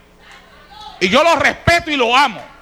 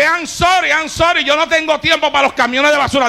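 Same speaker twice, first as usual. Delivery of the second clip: rude brush-off; 4 semitones higher than usual. Acted. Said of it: "Digo, no se lo digas así".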